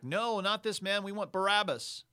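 crowd shouting back. Acted. The crowd yelling at Pilate for Barabbas, loud. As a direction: bellow it like an angry mob. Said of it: "They shouted back".

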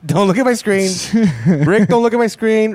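mock whiny complaint. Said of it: "that's pretty much".

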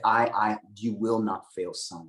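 slow, tender promise; gentle reassurance. Retold or imitated. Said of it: "And he's like".

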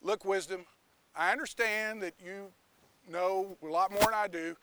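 a hint of a stern judge; firm justice. Justice answering Wisdom, low and firm. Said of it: "Justice goes".

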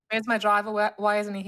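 lightly put-on Australian accent; a touch of Aussie accent. Shown as a demonstration. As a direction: say it as an Australian would. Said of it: "with an Australian accent".

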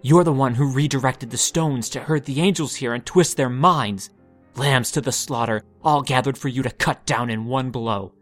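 loud, strained accusing voice; rising anger, shouting her down; shrill and grating. Acted. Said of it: "his voice grating and shrill against her calm".

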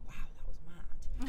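slow, hushed wonder; awed hush. Retold or imitated. Tour manager recalling a wild job, slow hushed awe. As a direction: breathe it out, amazed looking back. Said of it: "I'm like".

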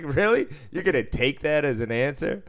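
can't believe he took that answer; mock incredulous at the man walking off. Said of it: "I was like".

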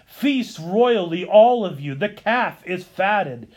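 measured, declamatory liturgical reading; formal cadenced church oratory; homily read aloud. Acted. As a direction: read an ancient Easter sermon to the congregation. Reads Chrysostom's Easter homily aloud.

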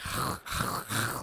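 repeated unvoiced throat rasps; throaty rasp imitation. Shown as a demonstration. Showing friend Scottish sounds, repeated throaty rasps. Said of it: "it has those, like".

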